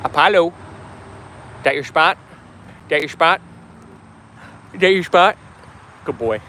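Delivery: sweet singsong to the dog; dog-talk voice. Real, not acted. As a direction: coo at the pet, asking about his spot. Talking to her dog.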